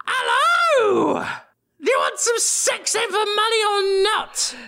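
shrill streetwalker call; high calling voice. Acted. Prostitute calling out to passersby.

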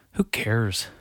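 whispered shrug; whispered who-cares aside. Real, not acted. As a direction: breathe it, not caring. Dismissive aside.

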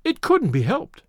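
high, slow, forced brightness; tense gaiety. A narrator's reading. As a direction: brittle cheer covering strain. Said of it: "cried Daisy with tense gaiety".

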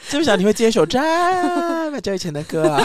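laughing. Real, not acted. Host laughing at cohost for quoting an old song, fast. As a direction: blurt it out through laughter.

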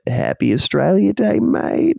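high, put-on old man's voice; elderly gentleman. Old man in the ad greeting his friend, in a high put-on voice. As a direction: quaver it like an old bloke in a retirement home. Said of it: "one of them quietly says".

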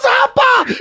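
very high mock shout; hammed-up hysterical yelp; imitating laughing friend. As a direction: yell it as if helpless with laughter. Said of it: "and he's laughing".

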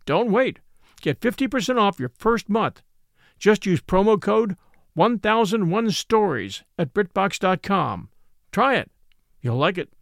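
upbeat, emphatic promo read. A narrator's reading. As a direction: pitch the offer to listeners. Host reads a sponsor ad.

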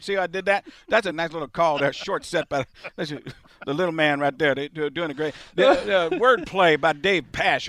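a light Bruce Arians call; a hint of Bruce Arians rambling through the play; faint Bruce Arians; Bruce Arians impression. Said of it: "Let's start that off as Bruce Arians".

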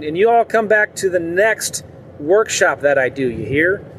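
a hint of a Southern country sign-off; lightly put-on Southern you all come back; playful Southern farewell to the workshop crowd; folksy Southern drawl. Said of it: "I don't know why I'm talking like that".

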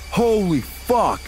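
very high, slowly stretched mock-panicked exclamation; imitated alarm. Bass guitarist looking at the camera, acted high-pitched shock. Bandmate's alarm in retold scare.

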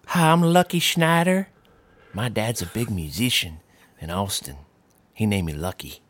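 a young son introducing himself, lightly voiced; playful kid character bit; imaginary son Lucky introduces himself, lightly played; Lucky Schneider voice. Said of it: "your impression".

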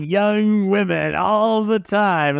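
lightly mocked boast, drawn out at the end; movie impression. Recalling a Naked Gun line to co-hosts, lightly hammed-up boast. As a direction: imitate a film character, stretching the last phrases. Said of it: "Naked Gun, where he's like".

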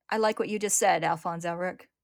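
loud proud call. Acted. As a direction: call across the room. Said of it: "a voice calls out".

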